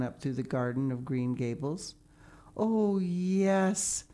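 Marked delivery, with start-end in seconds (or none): 2.5-4.0 blissful sigh. A narrator's reading. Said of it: "sighed Anne".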